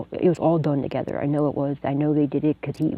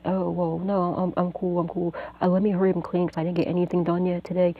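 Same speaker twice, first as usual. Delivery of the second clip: higher, breezy cover-up, like nothing happened; playing it cool; 3 semitones higher than usual. To the man who drugged her, pretending she is fine and casual. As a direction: act totally fine so he won't suspect. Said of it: "acting like".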